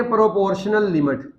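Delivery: پروپورشنل لمٹ drawn out slowly, stress on پروپورشنل; teacher spells out the term slowly for pupils. Shown as a demonstration. Slow, stressed term. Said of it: "کیا بولتے ہیں؟".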